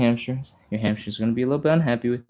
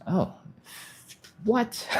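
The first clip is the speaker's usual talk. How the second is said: surprised; 10 semitones higher, 7 dB quieter than usual. Real, not acted. Viewer reports voice delay.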